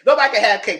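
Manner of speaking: loud fed-up proclamation; exasperated shout. Real, not acted. Vlogger ranting that the cake is ruined, loud and exasperated. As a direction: declare it loudly, done with everyone. Angry rant repeated.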